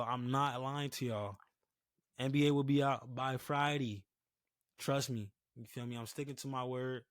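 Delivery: talking with a retainer in; wearing a retainer. Real, not acted. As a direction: retainer in, dry cotton mouth. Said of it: "If y'all can't tell".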